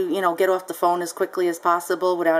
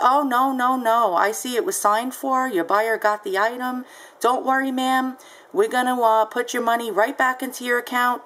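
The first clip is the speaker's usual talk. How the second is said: reassuring rep; 3 semitones higher than usual. Retold or imitated. PayPal rep voiced reassuring.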